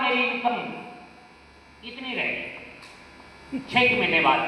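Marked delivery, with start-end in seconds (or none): 1.8-3.6 slow breathy whisper, almost nothing left; dramatic whisper. Acted. Telling the audience how little income remained, whispered slowly. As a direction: let it drain away to a whisper.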